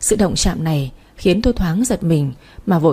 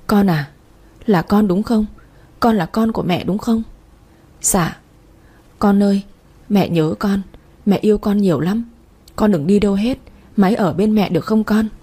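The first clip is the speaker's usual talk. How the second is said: sobbing. Acted. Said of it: "Tôi nức nở nói".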